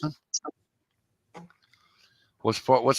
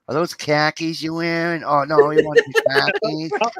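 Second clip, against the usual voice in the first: imitating his buddy; 6 semitones higher, 4 dB louder than usual. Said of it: "your next line's gonna be".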